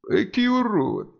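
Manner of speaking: dwarf spitting at an ugly sight, disgusted; spat-out disgust. A narrator's reading. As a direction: draw out the insult with mild revulsion. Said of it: "сплюнул Баламут".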